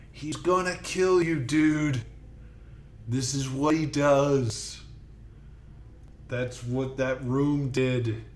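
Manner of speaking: urgent warning. Acted. Wounded character warns friend in scene.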